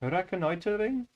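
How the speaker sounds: put-on "Reconnoitering" in a questioning Indian accent; tentative Indian-accented "Reconnoitering". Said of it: "how can I say that word?".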